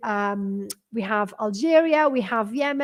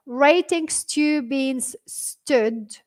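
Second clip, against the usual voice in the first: puzzled read-out; 2 semitones higher, much slower than usual. Retold or imitated. Teacher reads out a viewer's puzzling words, slowly. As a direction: read out the odd words slowly, each one apart. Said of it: "ليش تقرأ هكذا".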